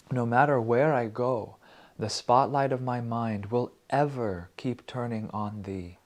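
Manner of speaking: slow, reverent reading of a verse; poetic recitation. Acted. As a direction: read it like a prayer, slowly.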